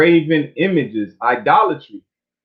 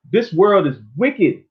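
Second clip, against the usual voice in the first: "This world is wicked" said slowly with weight on "wicked"; emphatic declaration. Shown as a demonstration. Preacher showing congregation how to say it, slow and emphatic. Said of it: "You gotta say it like that".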